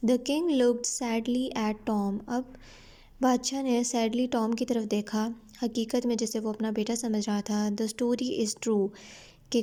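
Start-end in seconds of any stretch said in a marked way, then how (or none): 0.1-2.2 slow, careful reading of the English text; slow story reading. A narrator's reading. Teacher reading the English line slowly to her students. 7.5-8.9 slow, careful reading of the English text; slow story reading. A narrator's reading. Teacher reading the English line slowly to her students.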